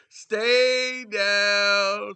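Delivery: loud, stretched-out call; drawn-out taunt. Real, not acted. Calling to a roasted Shannon, loud drawn-out taunt. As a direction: hold each word long and loud.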